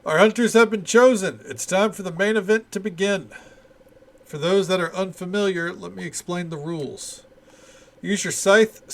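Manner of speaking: rally the contestants like an announcer; event announcer. Acted. Reading festival announcer's lines.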